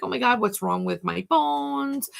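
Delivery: a touch of mock alarm; retold freak-out. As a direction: replay your own worry, lightly dramatized. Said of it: "like, I was freaking out".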